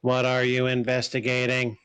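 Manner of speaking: translated character. Acted. Creature sizes up the visitors and questions one, measured. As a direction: intone each phrase evenly, with measured gaps.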